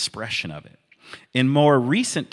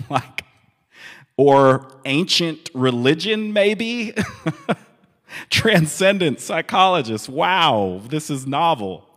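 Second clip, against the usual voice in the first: laughing, higher-pitched mock amazement; real amused laughter; 6 semitones higher, 5 dB louder than usual. Real, not acted. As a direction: tease it through real chuckles, pitch lifted. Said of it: "can't ever read that part without laughing".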